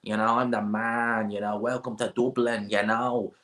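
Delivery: lightly put-on Dublin accent, drawn out; slow Dublin swagger, lightly mocked; McGregor. Streamer mocking how McGregor talks, light Dublin accent. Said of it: "when I hear that accent".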